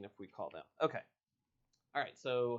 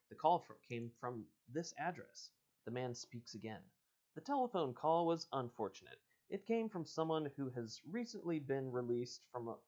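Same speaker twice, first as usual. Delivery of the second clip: reading the book's dialogue aloud; story reading. Acted. Host reading a choose-your-own-adventure to listeners, storyteller voice. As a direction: read it like an adventure book. Reads the man's lines aloud.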